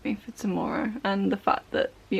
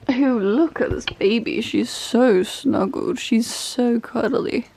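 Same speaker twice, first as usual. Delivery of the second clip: cooing at cat; 3 semitones higher, 4 dB louder, slower than usual. Real, not acted.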